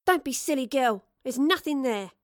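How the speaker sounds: brisk motherly telling-off; chiding mother. Acted. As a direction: chide a child impatiently. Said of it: "the mother chided".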